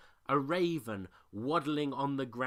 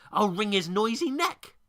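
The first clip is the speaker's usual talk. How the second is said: loud, higher threatening voice; mate threatening the raven, loud; angry threat; 8 semitones higher, 9 dB louder than usual. A narrator's reading. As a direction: snarl the threat.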